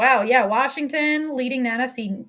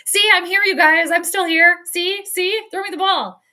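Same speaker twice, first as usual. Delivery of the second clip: louder, higher mock plea for the ball; excited receiver; 6 semitones higher, 6 dB louder than usual. Streamer imitates Justin Jefferson wanting the ball, loud and higher. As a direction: wave your arms and beg for a pass. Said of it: "But it's like".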